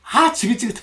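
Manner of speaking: sick and tired of it all; fed-up. Acted. Preacher voicing women sick of home, exasperated. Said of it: "많은 여자분들이 그러세요".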